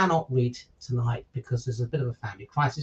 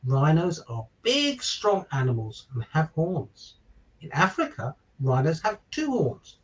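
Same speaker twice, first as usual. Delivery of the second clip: put-on bright, lilting picture-book narration for children; story reading. A narrator's reading. Father reading a giraffe story to listeners, lilting storybook narration. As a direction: read it like bedtime story time for little ones.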